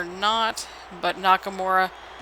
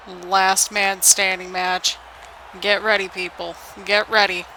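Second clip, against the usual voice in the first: slow, deliberate announcer build-up; match announcer hype; slower than usual. Pretend. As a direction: sell the main event to the crowd. Hypes the next match.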